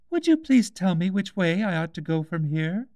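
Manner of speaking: put-on a young girl shyly calling the cat; childlike Alice; timid Alice. A narrator's reading. Alice asking the way.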